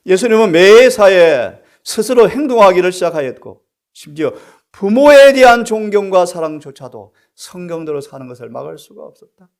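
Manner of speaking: loud, high, ringing proclamation; full-force preaching. Acted. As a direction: proclaim it to the whole congregation.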